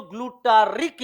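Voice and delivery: ग्लूटारिक with its RIK ending picked out; stress on the ending of ग्लूटारिक. Shown as a demonstration. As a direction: set off the final "rik" in ग्लूटारिक. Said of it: "कुछ कहते हैं इसको".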